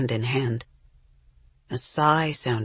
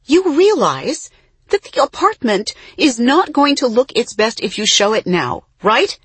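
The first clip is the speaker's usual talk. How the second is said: much higher, strained pitch; voice up an octave; 8 semitones higher, 6 dB louder than usual. A narrator's reading. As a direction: push the pitch way up. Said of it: "her voice going up an octave".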